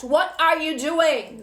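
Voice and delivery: a scolding What are you doing, slow and loud; guides scolding, upset. Retold or imitated. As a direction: voice the upset guides demanding an answer. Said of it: "I literally am hearing your guides upset".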